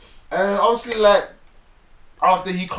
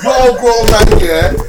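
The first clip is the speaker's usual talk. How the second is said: louder, half-laughing outrage; indignant retold outburst; 4 dB louder than usual. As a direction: bristle at him, voice cracking with laughter.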